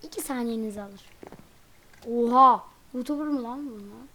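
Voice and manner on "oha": surprised shout. Real, not acted. Sudden surprise in game.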